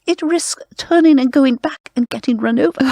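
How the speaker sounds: lightly imitating an old-school British radio presenter. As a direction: elegant British stage voice, only hinted. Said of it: "This woman with this incredible, not Canadian accent, but British voice, as if she'd been trained in the theater".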